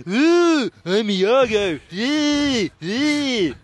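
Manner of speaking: lightly voiced villain; a hint of a scheming villain; Iago voice. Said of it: "Look at this, I'm Iago".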